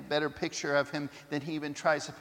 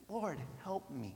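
pleading; 10 dB quieter than usual. A narrator's reading. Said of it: "pleading again".

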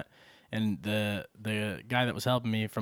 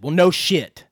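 mock snap; 5 semitones higher, 10 dB louder, slower than usual. Retold customer snapping back.

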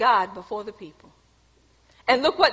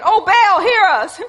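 higher, louder, slow, laughing through a hammed-up plea; mock pleading to Baal; 7 semitones higher, 6 dB louder than usual. Preacher mimics Baal's priests begging: laughing mock plea. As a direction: ham up a desperate prayer, chuckling. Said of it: "called on the name of Baal".

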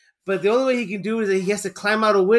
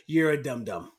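imitating the tease; 7 semitones lower, 7 dB quieter than usual. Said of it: "I love how he said that".

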